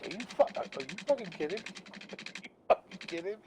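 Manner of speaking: half-laughing mock outrage; retold disbelief. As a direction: recreate the moment the news hit. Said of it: "I'm like".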